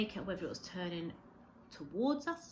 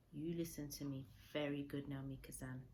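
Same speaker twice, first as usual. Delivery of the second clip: soft solemn; 3 semitones lower, 6 dB quieter than usual. Acted. Old man solemn, gentle.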